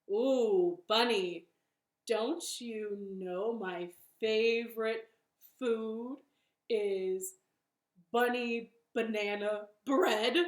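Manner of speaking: slow, slightly low storybook monster; mildly menacing monster with drawn-out pauses; lightly voiced Gruffalo. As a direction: savor each word, toying with your prey.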